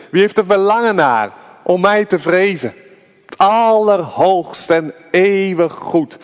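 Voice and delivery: an impassioned pulpit appeal; fervent preaching. Acted. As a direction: preach it out with rising fervour. Preacher calls out God's invitation.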